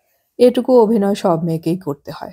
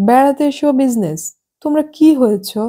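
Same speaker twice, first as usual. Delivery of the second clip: much higher, incredulous protest; indignant surprise; 7 semitones higher than usual. Acted. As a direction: scoff at business on holiday. Esha indignant about business trip.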